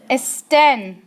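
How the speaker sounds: "estén" stressed on the final "tén"; stress on last syllable. Shown as a demonstration. Teacher modelling the plural form, "estén" with final-syllable stress. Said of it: "Stress is not on the second to last".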